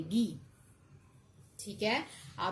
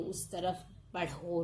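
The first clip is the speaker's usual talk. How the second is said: usual speaking voice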